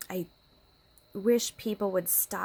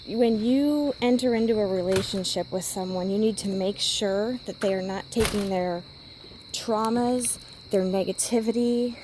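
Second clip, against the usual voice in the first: emphatic lecture; 5 dB louder than usual. Real, not acted. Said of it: "lecturing about relationships".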